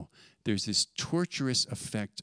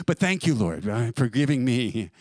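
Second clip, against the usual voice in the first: laughing, louder mock piety; mock thanks after a petty grudge, laughing; hypocritical prayer with a laugh; 4 dB louder than usual. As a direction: chuckle through the fake thanks. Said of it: "that's the hypocrisy".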